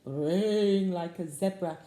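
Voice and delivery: long, loud "braying"; zebra-like bray. Shown as a demonstration. Reader leading children in animal sounds, braying. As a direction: bray out the first word like a zebra. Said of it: "you need to do it now while I say it".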